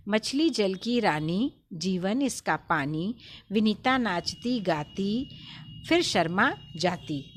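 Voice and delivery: put-on slow sing-song rhyme for children; poem recitation. Shown as a demonstration. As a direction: recite the rhyme slowly for the class. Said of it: "सभी बच्चे पढ़िए।".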